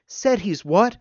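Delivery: high, loud astonished question; open-mouthed disbelief. A narrator's reading. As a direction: shoot it up in shocked disbelief. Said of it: "Marie's mouth fell open".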